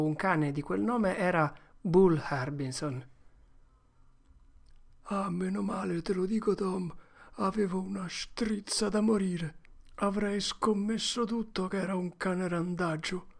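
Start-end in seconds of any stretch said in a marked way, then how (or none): 5.0-13.3 put-on higher boy voice, shaky relief; relieved boy. Huck tells Tom his relief, higher voice. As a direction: let the fear drain out.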